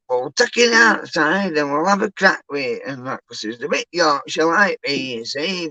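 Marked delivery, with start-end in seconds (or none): 0.1-2.8 imitating YouTuber. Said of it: "then he takes".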